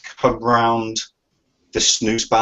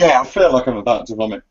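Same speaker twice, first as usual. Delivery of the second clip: queasy, about to retch; nauseous. Real, not acted. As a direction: talk through nausea. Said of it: "you look like you're about to vomit".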